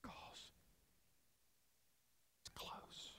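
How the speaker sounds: soft unvoiced whisper; hushed close whisper. Shown as a demonstration. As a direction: lean in and breathe the words. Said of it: "he's whispering".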